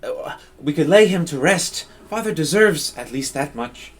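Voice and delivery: lightly voiced young noblewoman holding her ground; stubborn grieving daughter. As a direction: plant your feet and refuse to budge.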